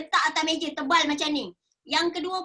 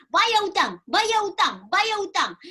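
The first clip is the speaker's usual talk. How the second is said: insistent, louder nagging repeated like a drumbeat; nagging mother; 4 semitones higher, 4 dB louder, slower than usual. Retold or imitated. Mother nagging her daughter to pay debts, insistent and louder. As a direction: hammer the words home like a nagging mum. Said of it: "hari-hari membebel".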